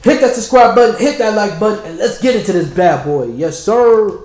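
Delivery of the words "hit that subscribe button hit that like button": loud plug. Real, not acted. Subscribe call.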